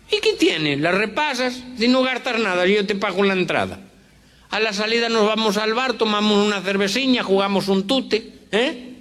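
very high, coaxing Galician voice; Galician accent. Acted. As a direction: coax a friend in a high Galician voice. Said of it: "este cuento de gallegos".

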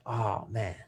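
soft, sinking realization; understated, deflated regret; retold remorse. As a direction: let it drop quietly, as if guilt just landed. Retells finding wife's note, regretful.

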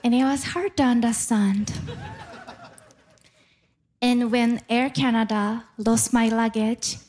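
ordinary talk, nothing marked

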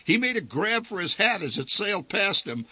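ordinary delivery, nothing marked

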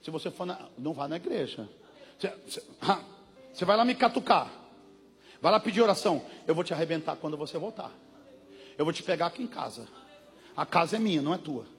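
low, hushed menacing demon voice; taunting devil. Retold or imitated. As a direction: sneer the threats quietly. Preacher voices the devil threatening.

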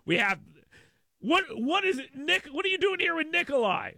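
ordinary talk

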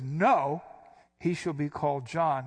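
a short, sudden no, then the name set down firmly; abrupt retort. Retold or imitated. Preacher voicing Elizabeth cutting off the relatives, abrupt. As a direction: snap back the refusal like a reflex. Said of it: "why do I keep inflecting like that".

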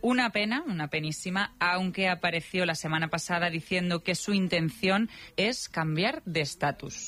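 lively, measured radio script read; radio presenter narration. Real, not acted. Presenter telling listeners the voices are alike, playful radio narration. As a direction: present it with playful, drawn-out emphasis.

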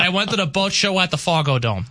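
failed Minnesota accent, staying East Coast. Shown as a demonstration. New Yorker reading a texter's test line, can't do Minnesota accent. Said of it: "I can't do it with the Minnesota accent".

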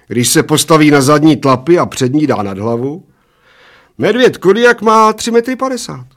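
put-on high, loud little old man insisting; insistent little old man. A narrator's reading. Little old man defends his bear fact, high and insistent.

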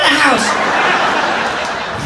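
mom. Retold or imitated.

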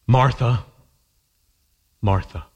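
falling, tender repetition of Martha. Retold or imitated. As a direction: call her name gently, with tenderness. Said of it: "What tenderness".

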